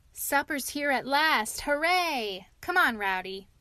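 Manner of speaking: sudden delight at food arriving; bouncy excited toad; gleeful cheer. Acted.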